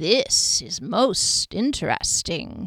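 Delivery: crisp enunciation, every s hissed. A narrator reads Trevile's remark to Duskellen's party, Trevile's sibilant enunciation. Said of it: "Trevile enunciated sibilantly".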